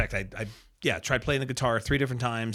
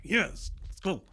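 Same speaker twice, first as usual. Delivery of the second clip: pumped cheer; 9 semitones higher, slower than usual. Retold or imitated. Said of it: "I'm like".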